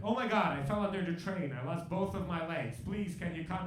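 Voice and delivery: loud, high-pitched hammed-up panic; mock panicked plea. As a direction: beg for rescue like a frantic caller. Imagined desperate emergency call.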